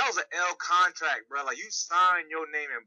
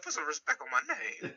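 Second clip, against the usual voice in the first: softer, higher, a touch of near-tears; a rapper; 4 semitones higher, 5 dB quieter than usual. Retold or imitated. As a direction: imitate him lightly, as if about to cry. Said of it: "when you about to cry".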